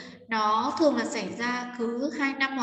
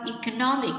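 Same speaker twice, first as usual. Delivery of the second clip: economic stressed on the third syllable, eco-NOM-ic; teacher models economic with the beat on NOM; stress demo. Shown as a demonstration. Teacher showing students where economic is stressed, NOM hit clearly. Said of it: "sẽ nhấn như sau".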